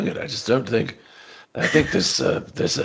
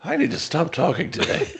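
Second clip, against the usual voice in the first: laughing; 4 semitones higher than usual. Real, not acted. Player laughing at himself.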